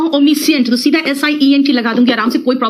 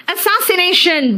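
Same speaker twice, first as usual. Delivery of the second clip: slow word announcement; 5 semitones higher, slower than usual. Shown as a demonstration. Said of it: "announcing new word".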